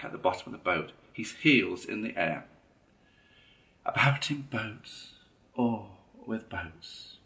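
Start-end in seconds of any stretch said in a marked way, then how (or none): 3.8-7.2 composed. A narrator's reading. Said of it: "the rat went on composedly".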